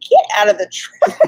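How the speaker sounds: high-pitched mock yell; imagined scream. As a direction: act out screaming at him, without full volume. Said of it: "I'd have been screaming at him".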